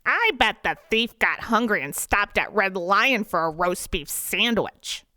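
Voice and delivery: pleased with his own theory; smug. A narrator's reading. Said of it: "Dennis says smugly".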